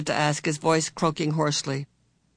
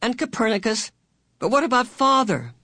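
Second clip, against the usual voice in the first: irritable impatience; 7 semitones higher than usual. A narrator's reading. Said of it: "her voice gritted irritably".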